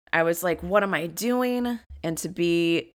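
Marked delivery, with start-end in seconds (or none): 0.6-1.8 higher-pitched, exasperated self-questioning; retold anger. Woman retells scolding herself in hotel room, angry. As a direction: demand it of yourself, mildly angry. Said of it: "and I was angry".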